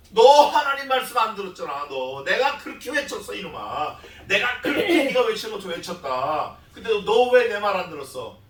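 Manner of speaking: loud, exasperated mock rebuke; mild acted scolding. God rebuking the one who never listened, acted exasperated scolding.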